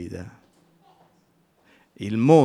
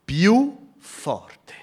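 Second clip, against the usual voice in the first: more forte said with a lift; louder; 8 semitones higher, 5 dB louder than usual. Shown as a demonstration. Preacher stressing how the blind man cried, louder. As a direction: push the words up and out.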